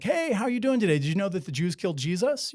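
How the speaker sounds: casual friendly opener, ending on a rise; mock friendly chat. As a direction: toss it out like friendly small talk. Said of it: "a real friendly conversation".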